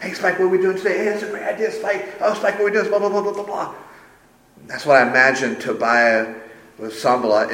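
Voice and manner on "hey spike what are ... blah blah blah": eager little sidekick dog, high-pitched; high, fawning cartoon terrier voice; Chester. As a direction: yap excitedly to impress the big dog. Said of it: "always trying to impress".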